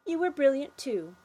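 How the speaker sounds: put-on happy girl praising.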